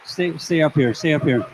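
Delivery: calling loudly over the noise; yelling across the room. Real, not acted. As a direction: shout them back onstage. Calling speakers back to stage.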